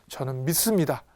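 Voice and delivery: lightly acted desperate plea; earnest cry. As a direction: plead with a burst on the middle word. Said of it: "하고 외치는 거예요. 정말 간절하죠". (간절하게 외치듯)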